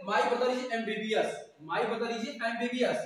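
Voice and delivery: slow, careful model sentence; slow example sentence. Shown as a demonstration. Teacher slowly models an English sentence for students, measured pace. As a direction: say each word slowly for the class. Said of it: "जैसे".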